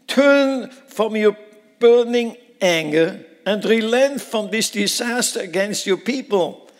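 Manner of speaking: loud, high, dragged-out pleading; impassioned plea. Acted. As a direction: beg God to turn back, stretching each word. Moses pleads with God.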